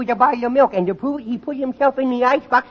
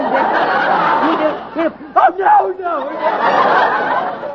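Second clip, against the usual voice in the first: rising yelp of playful fright; mock fright; 4 semitones higher, 3 dB louder, much slower than usual. Boy scaring himself with his own story, mock shriek. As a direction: scare yourself and yelp. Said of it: "I scared me".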